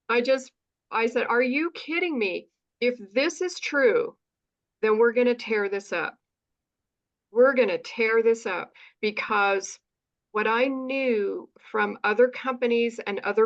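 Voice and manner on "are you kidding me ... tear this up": retold excitement. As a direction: relive the thrill of seeing the plan. Retold excitement over compensation plan.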